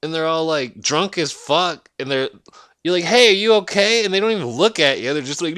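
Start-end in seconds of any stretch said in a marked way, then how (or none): 3.0-4.0 loud, high concerned call. Retold or imitated. Calling out to a drunk stranger in the street, loud concerned shout. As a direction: shout over to check on him.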